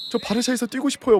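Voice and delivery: high, imitated begging voice; mock desperate pleading. Player begging the president to let him stay at Barça, mock pleading.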